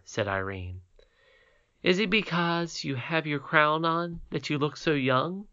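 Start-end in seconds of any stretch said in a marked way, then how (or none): 1.8-5.5 put-on lightly higher girl's voice; a hint of a happy child; glad little princess. Irene voiced by the reader.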